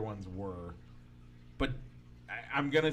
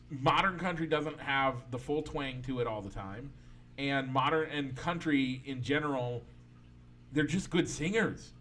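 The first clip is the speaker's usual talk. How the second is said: ordinary talk, nothing marked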